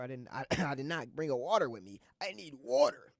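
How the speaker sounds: coughing, strained, throat giving out; sore throat. Real, not acted. Host out of water mid-show, raspy and coughing. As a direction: push through a sore dry throat. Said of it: "Ooh, my throat getting sore".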